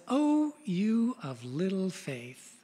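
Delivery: slow, drowsy and mild; a just-woken rebuke, slowly; sleepy-eyed Jesus. Acted. Jesus half-asleep chiding his frightened disciples, slow and drowsy. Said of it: "sleepy-eyed and says".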